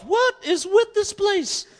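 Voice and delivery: baffled inner voice; mock bewilderment. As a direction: stretch out the question in amazed disbelief. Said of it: "I thought to myself".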